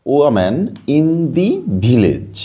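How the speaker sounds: very slow model reading, word by word. Shown as a demonstration. Teacher reading the English sentence to pupils, very slow and drawn out.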